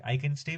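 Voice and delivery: "I can stay" with the voice rising at the end; rising question tune. Shown as a demonstration. Teacher shows a question made by intonation, rising. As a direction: turn the statement into a question by lifting "stay". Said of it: "with a question mark".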